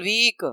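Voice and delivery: वीक with a long, stretched-out ee; long vowel. Shown as a demonstration. Teacher showing pupils the long vowel, drawn out. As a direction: hold the ee in वीक. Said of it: "लंबा जा रहा है ना आवाज".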